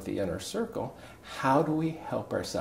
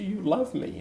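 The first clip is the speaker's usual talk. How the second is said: high-pitched, tearful-style question, less timid; louder squeak; 10 semitones higher than usual. Retold or imitated. Husband asking his wife once more on demand, high and louder. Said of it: "Say it louder".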